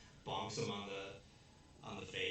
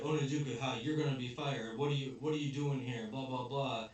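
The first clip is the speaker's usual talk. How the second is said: mock angry principal; 3 semitones higher, 6 dB louder than usual. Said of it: "the principal is really mad".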